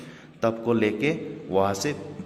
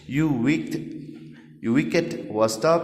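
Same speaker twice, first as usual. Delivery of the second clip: higher, drawn-out scolding cry; angry cry; 4 semitones higher, much slower than usual. A narrator's reading. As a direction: scold the wicked tub. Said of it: "he cried". (गुस्से में पुकारना)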